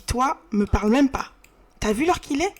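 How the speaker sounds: mildly acted scolding mother; annoyed mum. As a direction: scold him as a cross mum, lightly. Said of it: "Il vénère, maman". (maman vénère, légèrement jouée)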